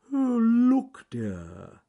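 high, loud tortoise call falling away; John Slow Tortoise. Acted. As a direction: swoop up on "look", settle on "dear". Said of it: "said John Slow Tortoise".

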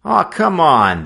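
high, loud pleading whine; begging. A narrator's reading. Friends begging Joe to come, loud whiny plea. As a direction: coax him to come along. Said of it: "they begged".

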